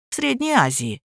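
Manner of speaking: ordinary delivery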